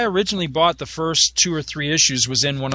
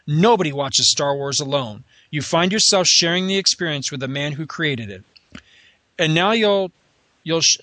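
grand, theatrical reading voice; grand booming space narration. Acted. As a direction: read it like a showman's proclamation. Reads Stan Lee's intro aloud.

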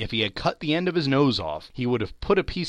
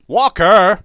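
put-on boy's loud startled cry, higher; exclaimed; 8 semitones higher, 15 dB louder than usual. Boy exclaiming in astonishment to Scrooge, loud and high. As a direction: blurt it out in disbelief. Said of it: "exclaimed the boy".

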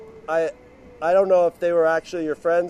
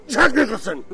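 louder, higher celebrity call; calling out a name; 5 semitones higher, 7 dB louder than usual. Retold or imitated. Spotting a celebrity walking by, loud call. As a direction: call to make the star turn. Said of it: "you go".

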